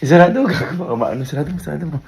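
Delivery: loud laughing yell to shut it; urgent shout. Real, not acted. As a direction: shout it in a panic.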